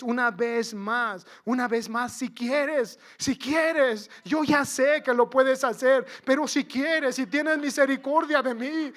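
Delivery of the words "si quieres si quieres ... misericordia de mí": raised pleading call, mildly louder; crying out. Acted. Lepers begging Jesus for healing, crying out. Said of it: "Allá estaban gritando una vez".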